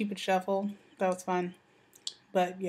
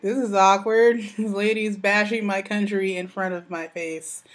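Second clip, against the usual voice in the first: loud, laughing mock embarrassment; 6 dB louder than usual. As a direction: voice the awkward husband through laughter. Husband's reaction retold.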